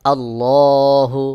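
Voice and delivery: আল্লাহ with a full, heavy lam, drawn out slowly. Shown as a demonstration. Teacher reciting আল্লাহ with a thick heavy lam. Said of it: "মোটা করে পড়তে হয়".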